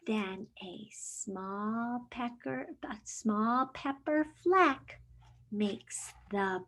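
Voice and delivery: lively picture-book read-aloud; reading to children. Acted. Teacher reading a picture book to her class, lively storytime voice.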